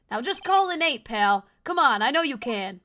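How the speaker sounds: urging, swooping emphatic voice; acted agitated coaxing; worked up. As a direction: egg on a radio broadcast. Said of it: "He's getting really worked up".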